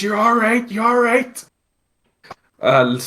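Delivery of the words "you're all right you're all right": higher, soothing reassurance; comforting brother. Retold or imitated. Brother comforting the crying groom, higher soothing voice.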